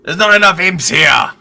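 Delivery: loud, high exasperated bellow. Acted. Adventurer complains to a mirror about the missing imps, bellowing. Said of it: "I bellow at the mirror".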